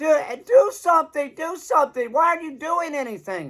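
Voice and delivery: play-acted shrill, very high, top-of-the-lungs screaming. Retelling a tourist screaming at the tour guide: imitating a woman screaming. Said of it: "this woman's screaming at the top of her lungs".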